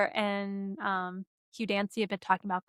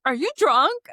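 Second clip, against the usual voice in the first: chef's question; 5 semitones higher, 5 dB louder than usual. Retold or imitated. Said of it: "he's like".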